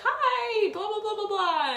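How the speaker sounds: high, loud, sing-song fake greeting; mock the nurse's gushy hello to mom; gushing nurse. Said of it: "she was like".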